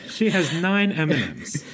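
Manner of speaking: giggling through the words; laughing while talking. Real, not acted.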